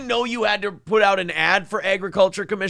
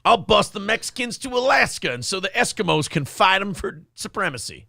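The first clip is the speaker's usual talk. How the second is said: mock campaign ad; 4 semitones higher than usual. Parody of candidate.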